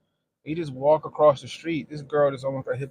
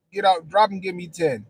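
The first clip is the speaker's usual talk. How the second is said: drill sergeant command; 5 semitones higher, 5 dB louder than usual. Retold or imitated. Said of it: "pull over the side of the road".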